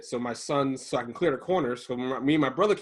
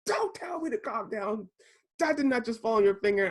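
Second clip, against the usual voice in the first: indignant mimicry; 9 semitones higher than usual. Hurt wife rebuking husband for calm down, mock indignant. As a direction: imitate an upset wife, pitched up. Wife's angry retort, acted.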